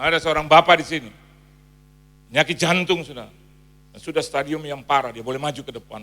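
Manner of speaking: loud, ringing pulpit proclamation; booming word of prophecy; prophetic call. Retold or imitated. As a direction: call it out to the whole church. Preacher calling out prophecy.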